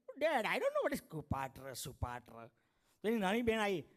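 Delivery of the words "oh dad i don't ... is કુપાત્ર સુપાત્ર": put-on a bored American kid, slowly; American accent. Son answers dad in American English.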